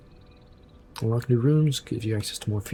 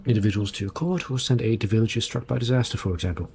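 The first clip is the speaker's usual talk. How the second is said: formal, courteous explanation to a monarch; a touch of stately castle guide; lightly voiced map room steward.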